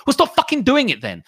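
high, loud exasperated snap; fed-up rant peak; angry outburst. Real, not acted. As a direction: blast it out in frustration. Ranting at rude company.

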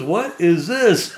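slow, high, drawn-out astonishment; mock surprise. Boss finding the box under the truck seat, slow mock surprise. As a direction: act shocked at what you found.

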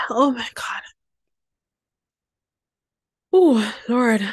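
breathless whisper through tears; overwhelmed whisper; tearful whisper. Real, not acted. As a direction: whisper it, too moved to speak.

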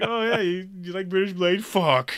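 high mocking imitation of a grumpy coworker; lightly voiced sulky coworker, high and amused. Imitating an annoyed coworker for a friend, high and mocking. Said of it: "He's like".

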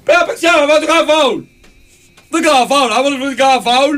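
put-on very high little-kid yell; παιδάκι στην κερκίδα. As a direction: imitate a short kid shrieking advice from the stands. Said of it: "Και είναι ένα παιδάκι κοντό". (ψιλή παιδική φωνή που τσιρίζει)

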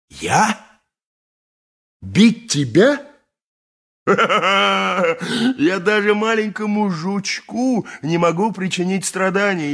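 slow, amused laughing disbelief. Acted. Mastax laughs off Pelida's question about beating her. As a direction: laugh at the very idea of it.

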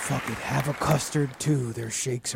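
slow Jesus voice. Retold or imitated. Voicing Jesus again.

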